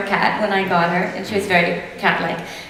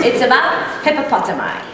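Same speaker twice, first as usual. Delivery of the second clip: laughing; 4 semitones higher, 5 dB louder than usual. Real, not acted. Joke spoiler said laughing.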